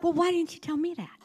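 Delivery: high, laughing indignation; laughing mock complaint. Woman joking to congregation about God, laughing. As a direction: tease the Lord with a laugh.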